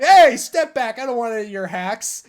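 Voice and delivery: loud, high rebuff that settles; mock angry. Imitating a rapper cutting off rival, mock angry. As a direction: cut them off sharply. Acts Pearl cutting Fry off.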